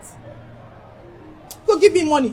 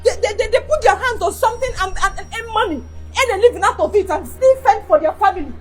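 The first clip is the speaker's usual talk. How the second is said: scolding. Acted. Wife berating her injured husband to earn money, scolding. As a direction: berate him to get up and work.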